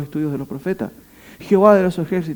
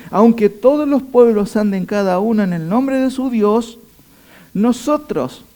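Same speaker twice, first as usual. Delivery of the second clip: louder, higher proclamation for the people; voice of Israel; 6 semitones higher, 5 dB louder than usual. Acted. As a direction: proclaim it as the whole nation. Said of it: "él toma el micrófono y en nombre de Israel dice".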